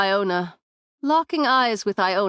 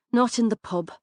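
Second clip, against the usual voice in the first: woman echoing him; 3 semitones higher than usual. Acted. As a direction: throw his words back at him. Branagh echoes Finn's words back.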